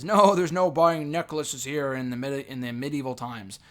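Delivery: a badly faked olde-English Renaissance fair accent; mock the king's faux-medieval English, only lightly; light fake Renaissance fair English accent; terrible medieval accent. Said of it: "That's a terrible accent".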